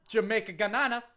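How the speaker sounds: lilting put-on Jamaican wrestler; hammed-up Jamaican accent; Kofi Kingston, Jamaican accent. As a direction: protest in a mock Jamaican accent. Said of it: "you from Jamaica again now?".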